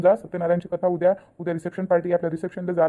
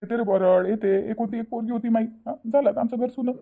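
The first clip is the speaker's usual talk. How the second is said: mildly weepy, mourning an only daughter; tearful lament; 4 semitones higher than usual. Acted. Father lamenting the house left empty after the wedding, tearful. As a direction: voice rising higher as the grief builds. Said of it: "तुम्ही काहून रडू राहिले आता एवढे".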